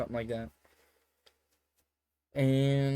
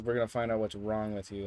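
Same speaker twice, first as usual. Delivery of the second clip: retold bluntly in the usual voice; flat-out statement. Storyteller repeating the girl's verdict, blunt and matter-of-fact. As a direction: state it straight, without the raised girl's voice. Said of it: "she flat out says".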